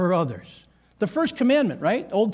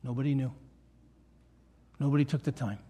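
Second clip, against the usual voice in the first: low, soft acted regret; understated regret, softer and lower; subdued regret; 5 semitones lower, 6 dB quieter than usual. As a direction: voice a quiet lament after a tragedy. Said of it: "we're gonna be like".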